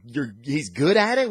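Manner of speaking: "good at it?" thrown back high and loud in disbelief; mock his words back, rising; incredulous echo. Carol mocking Strange's words, high and disbelieving. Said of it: "Carol has a great line going".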